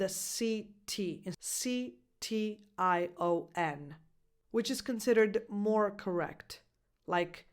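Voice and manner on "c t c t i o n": spelling out. Shown as a demonstration. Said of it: "spelled with".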